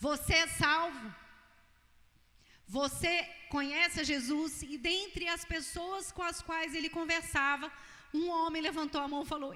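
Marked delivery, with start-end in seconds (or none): 0.1-4.6 loud, repeated shouting, calling out. Retelling a man on a sinking ship calling out: imitating someone shouting. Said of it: "ele continua a gritar".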